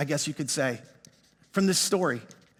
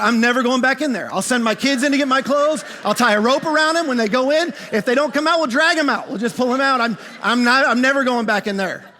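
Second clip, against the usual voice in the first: comic loud vow; 4 dB louder than usual. Retold or imitated. Vowing never to return to closet.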